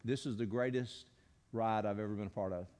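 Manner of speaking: low, hushed, deeply moved retelling; deep emotion. Retold or imitated. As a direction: quote him softly, with understated heavy feeling. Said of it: "with the most deep emotion".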